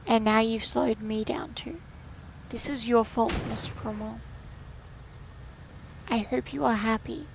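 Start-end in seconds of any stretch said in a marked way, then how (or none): 2.5-7.3 road rage. Real, not acted. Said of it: "road rage side of her coming out".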